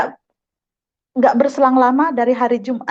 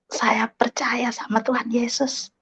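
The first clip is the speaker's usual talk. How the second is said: hushed whisper; 6 dB quieter, slower than usual. Real, not acted. Testimony of her conversion moment.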